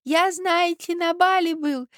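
put-on high old man's voice; old prince. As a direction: chatter like a doddering prince. Prince keeps talking.

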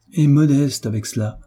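plus haut et plus fort, avec élan; s'emballer d'admiration pour son père; animé. Acted. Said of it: "s'animant de plus en plus". (Philippe s'enthousiasme pour son père, ton animé et plus haut)

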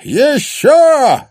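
high, loud triumphant yell; triumphant shout. Acted. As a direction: roar it in triumph. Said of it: "торжествующе хохоча произнёс".

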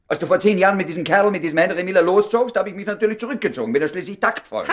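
bitter reproach. Acted.

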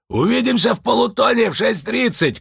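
высокий громкий оклик; прокричать вдогонку; оклик вслед. A narrator's reading. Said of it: "крикнул им Лунветр". (Лунветр кричит вслед уходящим)

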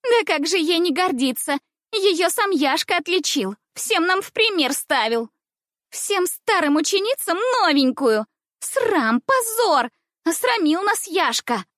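put-on high, loud indignant girl; indignant cry. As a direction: shout your outrage, voice climbing. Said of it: "кричала хорошенькая".

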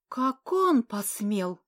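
loud, slow sharp retort. Acted. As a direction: throw her words right back. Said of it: "парировала Милдред".

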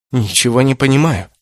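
ordinary delivery, nothing marked

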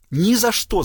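high-pitched, indignant yelp; wailed refusal. A narrator's reading. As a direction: cry out in protest. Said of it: "завопила Сесиль".

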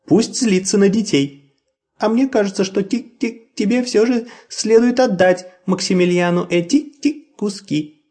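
high insistent chirping voice; peeping baby chick. A narrator's reading. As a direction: insist in a tiny peep. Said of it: "настаивала Тутта Карлсон".

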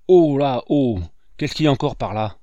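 loud startled outburst, rushing the question; bellow, then grumble fast; grumbling shout. A narrator's reading. Brigadier startled by the children's racket, loud grumble. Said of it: "grommela-t-il".

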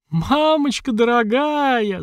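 long, very high, slowed wail; shrieking. A narrator's reading. Mother shrieking in terror, very high and drawn out. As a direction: wail it out in horror. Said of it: "заверещала Света".

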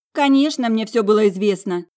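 loud, bitter outburst; angry retort. A narrator's reading. Sister admitting she knew, angrily. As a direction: throw it back through clenched teeth. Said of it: "Она зло стиснула челюсть".

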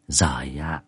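breathy whispered gasp of dismay; old granny whispering in dismay; whispered exclamation. Acted. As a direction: breathe it out in shock. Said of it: "Bà cụ móm mém".

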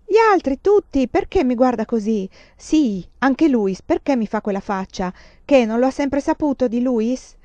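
cries out high and loud; a frantic, defiant yell at the nuns; shouting. Acted. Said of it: "Ora gridava".

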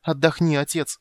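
high, loud, weeping plea; tearful pleading. Acted. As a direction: beg him to rest through tears. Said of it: "с плачем стала умолять его".

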